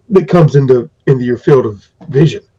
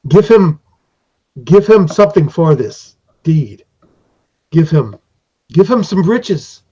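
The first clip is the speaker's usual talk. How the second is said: lightly voiced creature lord giving orders; commanding master; 3 semitones higher than usual. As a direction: order the servant to fetch riches. Periwinkle orders a reward.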